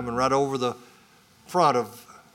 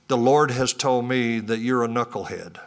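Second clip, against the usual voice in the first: laughing; 2 semitones lower than usual. Retold or imitated. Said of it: "I kinda say to him".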